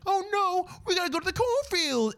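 high, soft mock panic of stranded teens; hammed-up horror-ad fright. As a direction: squeak it like a scared ad actor. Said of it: "And like".

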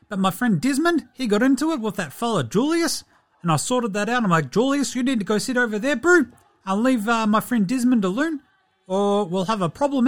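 broad Kiwi basketballer, matey diary chat; Stephen Adams. Acted. Basketballer confiding in his diary, in a broad Kiwi voice. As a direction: put on a thick New Zealand character voice, bro. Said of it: "a new Diary of Stephen Adams".

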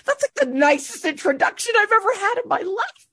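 high, choked-up retelling of her tearful reply. Retold or imitated. Telling the executive his introduction moved her, high and tearful. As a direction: relive the moment you were moved to tears. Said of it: "Um, I cried".

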